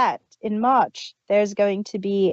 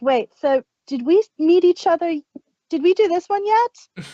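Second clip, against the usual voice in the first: voicing confused time travelers; 8 semitones higher, 4 dB louder than usual. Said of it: "It's like".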